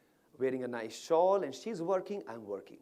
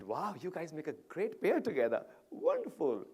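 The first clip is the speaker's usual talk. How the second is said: boosting her up; 2 semitones higher than usual. Retold or imitated. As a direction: gush to lift her spirits. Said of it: "boost her up a little bit".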